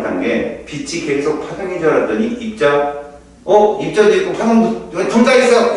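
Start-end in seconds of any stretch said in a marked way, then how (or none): 3.4-5.8 higher-pitched, acted-out astonishment; mock surprise. Teacher acting out the discovery that light is both particle and wave, surprised. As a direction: play a sudden discovery, pitch climbing.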